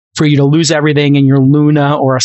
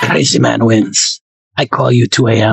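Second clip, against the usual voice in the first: put-on Japanese accent; 4 semitones lower than usual. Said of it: "I'm doing a Masa impersonation".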